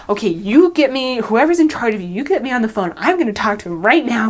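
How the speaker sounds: mock-angry, insisting he gets the phone; angry demand. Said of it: "he started to get really angry".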